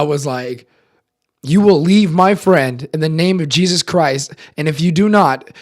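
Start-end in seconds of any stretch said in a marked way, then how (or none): 1.4-5.5 loud, forceful mock exorcist order; retold exorcism command. Man confronts possessed friend, loud commanding voice. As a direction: command the demon out, voice raised.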